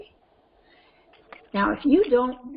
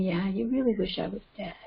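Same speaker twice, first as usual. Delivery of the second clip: calm tone; 3 dB quieter than usual. Shown as a demonstration. Parent validating an angry child, calm tone. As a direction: say it evenly, without any heat. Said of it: "if I'm using a calm tone saying".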